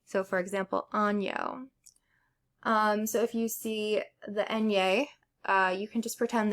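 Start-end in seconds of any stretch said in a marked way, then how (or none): 0.9-1.7 "año" said as "ah-nyo"; ñ as in onion. Shown as a demonstration. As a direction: put a "ny" sound in "año". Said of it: "like the sound in onion".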